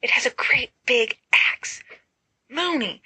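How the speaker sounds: panicked. Acted. Sirius panicking at an axe.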